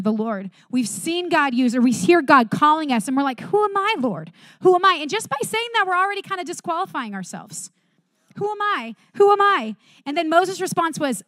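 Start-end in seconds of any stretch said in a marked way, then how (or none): 3.4-4.9 high, doubtful, small-voiced questioning; insecure pleading. Worshippers doubting God's call, in a high, small voice. Believers doubting their calling. 8.4-9.8 high, doubtful, small-voiced questioning; insecure pleading. Worshippers doubting God's call, in a high, small voice.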